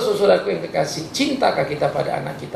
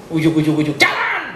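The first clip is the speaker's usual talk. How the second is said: mock shout. Mocking how the MRT got built.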